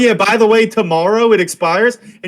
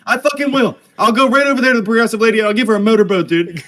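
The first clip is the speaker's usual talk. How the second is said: hammed-up defiant rant, pitched up; fired-up rant; 4 semitones higher than usual. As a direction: insist heatedly, as if dared. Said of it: "I'm getting fired up".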